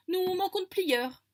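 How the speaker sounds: high, slow, lofty teacher voice; a solemn head magician announcing; stern magician voice. Acted. Magician character speaks in excerpt.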